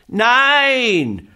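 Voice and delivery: put-on a high, loud child's refusal; shout. Little boy refusing the moon, loud high shout. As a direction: bark out the no, defiant. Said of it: "schrie Häwelmann".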